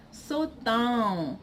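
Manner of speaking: "so down" with a nasalized "own"; nasal ending. Shown as a demonstration. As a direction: send the end of "so down" through the nose. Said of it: "like, nasally".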